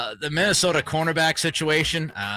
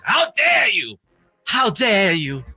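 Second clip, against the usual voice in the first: loud, higher-pitched mock indignation; mock outrage; 4 semitones higher, 4 dB louder, slower than usual. Host playing offended at a basketball school jab, mock outrage. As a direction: act hugely affronted, raising the voice.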